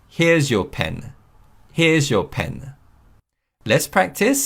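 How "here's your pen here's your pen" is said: Here's your pen, slow and clear; slow model sentence. Shown as a demonstration. Teacher models returning a friend's pen, slowly. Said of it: "we can say".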